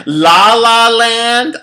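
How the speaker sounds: loud, slow, high drawn-out phrase; dreamy drawl. Real, not acted. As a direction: stretch it out like you are floating away. Describing propofol knocking her out.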